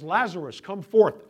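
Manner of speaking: loud, rising call of a name; Jesus calling Lazarus out of the grave, a loud shout; commanding shout. Retold or imitated. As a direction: call him out of the tomb, full voice. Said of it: "he's yelling that out".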